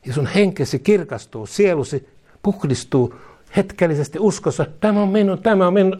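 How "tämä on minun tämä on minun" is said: raised, higher-pitched happy claim; eager believer's claim. Retold or imitated. Preacher voicing a believer, eagerly claiming. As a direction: grab the promise like it's yours.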